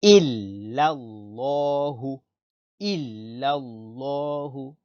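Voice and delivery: slow, drawn-out illallahu with a clear i; clear i onset. Shown as a demonstration. Teacher modelling the Arabic for pupils, slow careful illallahu. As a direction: draw illallahu out slowly, keeping the first vowel i. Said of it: "bien prononcer i".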